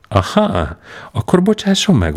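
echoed back high and mocking; a cheeky high-pitched echo of the old man's line; mocking retort. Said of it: "vágott vissza a kitűnő Ostap".

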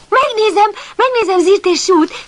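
high, loud, gleeful cry of "megnézem"; happy shout. Acted. Eager puppy cries out that he'll go look, happy shout. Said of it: "kiáltotta Pamacs boldogan".

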